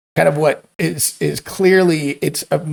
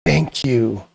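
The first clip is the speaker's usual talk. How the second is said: dragon's whisper; 3 semitones lower than usual. A narrator's reading. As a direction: breathe it like a dying dragon's thanks. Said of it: "you hear the dragon whisper".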